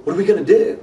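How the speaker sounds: lightly voiced anxious intern asking for help; worried intern. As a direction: intern imitated, high and alarmed. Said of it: "looked at me and he goes".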